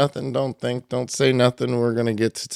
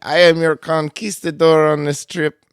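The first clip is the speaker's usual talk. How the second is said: loud ring announcer, a hint of Spanish accent; lucha libre announcer; 5 semitones higher, 6 dB louder than usual. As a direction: announce the host like a wrestling emcee. Mock Spanish host persona.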